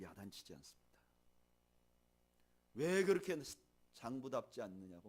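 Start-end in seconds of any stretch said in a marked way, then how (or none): 2.7-5.1 mock scolding. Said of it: "뭐라 하지 않습니다".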